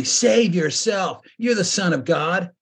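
mocking challenge from the crowd; taunting jeer. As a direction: dare him to save himself, mockingly. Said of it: "they mocked him saying".

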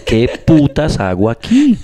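slow, laughing quote. Retold or imitated. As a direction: quote the comedian while laughing. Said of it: "el man". (cita lenta entre risas)

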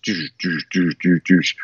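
low, spaced-out doosh sounds; falling, repeated door thud; imitated slow-motion door. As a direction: mimic a heavy door closing in slow motion. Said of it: "It's like slow motion".

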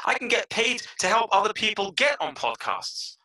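high, marveling self-talk; retold growing excitement. Podcaster realizing he could get paid teaching, acted excitement. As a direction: relive discovering what you can do. Reliving success on many podcasts.

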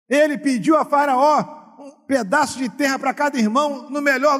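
high, loud, shouted climax; preaching at full force. Acted. Pastor urging the church to bless others, shouted preaching.

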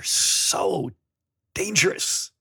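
squeaky high mock-scared "dangerous"; mock alarm. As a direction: pretend to clutch your pearls on the last word. Sarcastic jab at drag danger.

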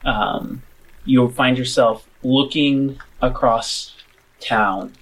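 slow, atmospheric scene-setting; game master narration. Acted. Game master shows players the smouldering town at night, slow narration. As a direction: paint the view unhurriedly, pausing between images.

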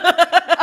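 loud snorting laugh. Real, not acted. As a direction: burst out laughing through the nose. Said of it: "did you just snort?".

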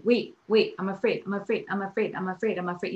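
a lightly voiced panicky inner alarm, repeating itself; mock frightened amygdala. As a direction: playfully act out a nervous brain part. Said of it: "the amygdala is like".

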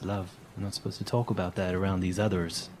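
quiet, secretive warning, glancing round; hushed NPC aside. Acted. Gnome warning the girl, hushed and secretive. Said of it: "and he goes".

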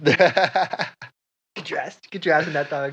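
slow, loud drawn-out command; bossy order. Acted. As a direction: drag out the order like a boss. Boss barking order.

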